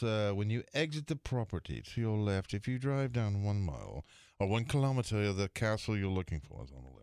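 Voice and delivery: proper English gentleman giving directions; English accent. Retold or imitated. English secretary directing golfers to the castle, proper English accent. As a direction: explain patiently in an English accent. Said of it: "This guy was English".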